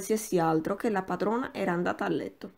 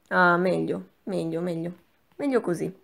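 said loudly. Acted. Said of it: "dicendo forte".

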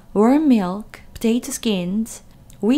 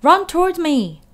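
higher, louder gander yell; 8 semitones higher, 7 dB louder than usual. A narrator's reading. Gander yelling to Wilbur, high and loud. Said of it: "yelled the gander".

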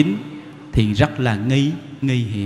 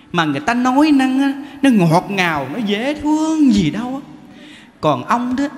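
higher, complaining spouse voice; mock quarrel; 6 semitones higher than usual. Spouse complaining about the monk at home, higher mock voice. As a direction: act out the bickering couple.

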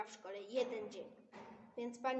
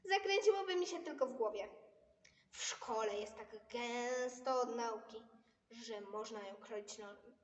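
Pippi voice; 3 dB louder than usual. Acted. Pipi voiced.

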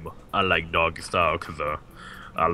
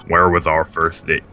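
put-on accidental touch of country accent; country accent slip; 4 dB louder than usual. Asking a partner about the first date, country accent slipping in. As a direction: let it slide into a country accent. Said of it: "Fuck, country".

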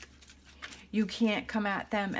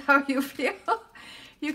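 laughing; 5 semitones higher, 5 dB louder than usual. Real, not acted. Laughs at her own joke.

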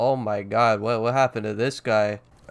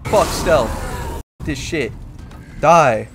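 battle yell; 5 dB louder, much slower than usual. Real, not acted. Charging boss in rage.

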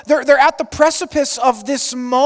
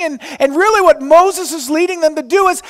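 ordinary talk

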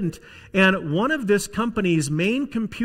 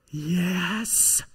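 hushed, stretched-out whisper; whispering little child; 5 dB quieter than usual. Acted. Little boy answering the boss on the phone, whispering. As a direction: answer in a small, secretive whisper. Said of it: "whispers the little voice".

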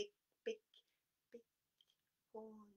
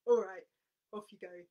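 gruff troll; 13 dB louder than usual. Acted. Troll agrees.

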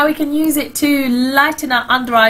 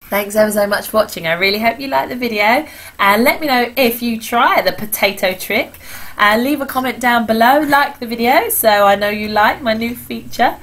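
husky voice. Real, not acted. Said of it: "apologies for my slightly husky, squeaky voice".

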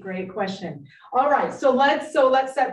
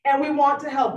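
normal talking voice

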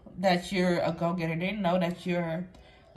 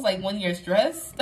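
a real laugh breaking into the words, a little slower. Real, not acted. To the mother watching, laughing through the words. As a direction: let the laugh spill into it.

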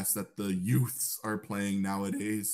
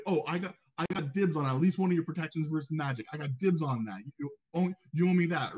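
fast, higher teasing banter; playful dibs; 4 semitones higher, faster than usual. Retold or imitated. Leader teasing the healer about protections, playful and quick. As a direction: call dibs jokingly on the healer. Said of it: "You see someone like".

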